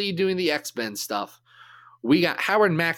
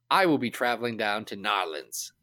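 put-on half-hearted, lower-pitched Cajun accent; bad Cajun accent; 4 semitones lower, 3 dB quieter than usual. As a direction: badly fake a Cajun accent without really trying. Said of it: "That was a very bad Cajun accent".

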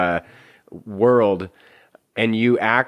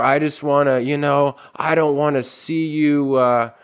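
mock nice concern; 4 semitones higher than usual.

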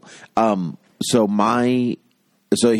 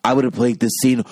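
lightly voiced indignant actor, pitched up; mock protest in a slightly higher voice; Marlon Brando; 4 semitones higher than usual. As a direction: play a put-out film star, lightly hammed-up. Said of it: "Marlon Brando is like".

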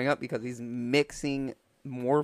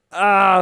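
loud, high mock groan of pain; 6 semitones higher, 11 dB louder than usual. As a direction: groan out in hammed-up agony. Man holding his spleen in pain.

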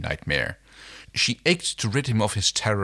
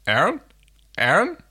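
gentle call, rising on the name; soft calling; 9 semitones higher, 4 dB louder than usual. Acted. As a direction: call her awake softly. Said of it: "The soft voice calling her".

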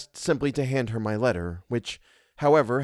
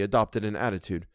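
ordinary delivery

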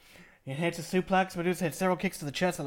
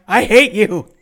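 loud, higher imitated yell; mock wrestler's yell, belted; imitating Hokuto yelling; 4 semitones higher, 15 dB louder, slower than usual. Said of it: "Hokuto yelling".

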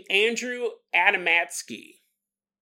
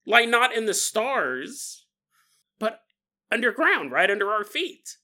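hammed-up nerdy egotist; nerd voice; 2 semitones higher than usual. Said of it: "the nerd voice".

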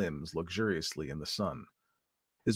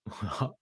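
weird snarling laugh; 3 dB quieter than usual. Acted. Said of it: "a weird, low laugh ... like a snarl".

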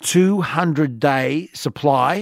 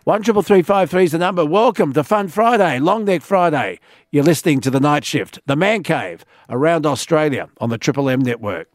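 upbeat radio announcer read. Acted. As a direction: sell the station ID on air. On-air station ID read.

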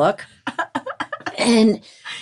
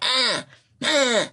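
put-on baby fussing; 6 semitones higher than usual. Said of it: "She was just like".

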